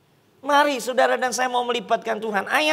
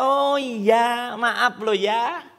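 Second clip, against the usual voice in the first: polite and gentle; 2 semitones lower, much slower than usual. Retold or imitated. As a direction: imitate a debtor excusing herself nicely.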